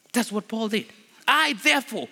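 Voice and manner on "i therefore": "I" punched higher, then "therefore" falling; stress on I. Shown as a demonstration. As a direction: hit "I" first for emphasis. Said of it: "for the sake of emphasis".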